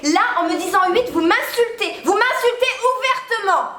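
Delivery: indignant, rising and half laughing; mock offended. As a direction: play the insulted genius, cracking up. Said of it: "Vous vous rendez compte de qui je suis?". (indignation jouée, en riant)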